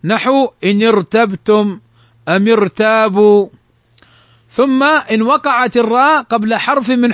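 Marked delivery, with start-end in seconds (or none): 0.6-3.5 thick ر in ارتبتم and ارتابوا; careful recitation, heavy ر in ارتبتم and ارتابوا. Shown as a demonstration. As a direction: make the ر of ارتبتم and ارتابوا full and emphatic. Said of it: "فإنها تفخم".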